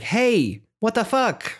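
high, outraged little voice; hammed-up annoyed goddess; mock indignant Sothis. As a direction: squeak it out in disbelief. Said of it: "Sothis immediately being like".

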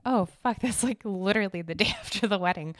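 catching the date clash mid-laugh; retold laughing dismay; laughing realization. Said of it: "And I was like".

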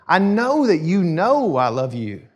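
slow, with KNOW swooping up both times; emphatic avowal. Retold or imitated. Peter assures Jesus of his love, slow and emphatic. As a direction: lean long on each "know". Preacher acts out Peter's meaning.

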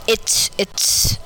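slow, halting sheepish correction; hesitant and sheepish. A narrator's reading. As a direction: stumble into it slowly, embarrassed. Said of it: "my dad said sheepishly".

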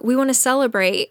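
high, excited imitation of guards; eager celebrants.

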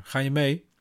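put-on high child question; little girl asking. Daughter asks mother to come along, high and hopeful. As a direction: ask her hopefully.

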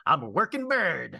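hint of a talking-bird voice; working bird. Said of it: "So he's like".

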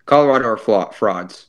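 flat deadpan, no emotion at all; emotionless. Pretend. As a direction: read it like a robot, short and blank. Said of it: "I'm gonna show no emotion whatsoever".

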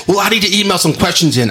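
high, eager imitation of his mom; fired-up mom. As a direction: pipe up as an insistent mom. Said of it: "Was she fired up?".

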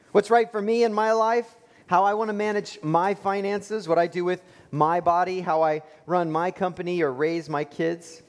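mock-defiant voice of the self-made person; defiant claim.

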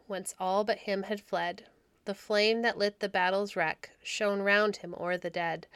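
measured verse reading; poem recitation. A narrator's reading. Narrator reading the old poem to children, measured.

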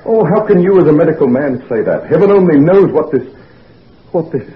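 blurting out his panic; agitated outburst. Acted. Patient frets over his mental illness.

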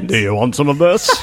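mock creepy line through laughter; laughing quote. Laughing while quoting the creep to friends.

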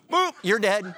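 high, loud comic pop; sudden cartoon boop; playful boop. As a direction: pop the word like a bubble. Sudden death punchline.

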